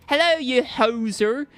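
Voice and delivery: slow, loud mock Canadian; hammed-up Canadian drawl; attempted Canadian accent. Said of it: "I can't do it".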